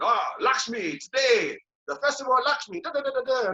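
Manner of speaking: high, hyped-up mimicry of festival callers; sing-song the festival list, teasing; mock festival excitement.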